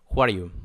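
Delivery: "Who are you" run together, "are" as "ar" joined to "you"; R linked to Y. Shown as a demonstration. Teacher showing students how to join words, R linked to Y. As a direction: link the R of "are" straight into "you". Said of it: "elimino la E y pronuncio directamente la R y la uno con la Y".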